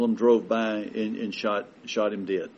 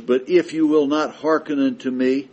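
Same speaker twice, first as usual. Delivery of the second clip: scripture read as God; 4 dB louder than usual. Acted. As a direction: thunder God's warning from Leviticus. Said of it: "God says".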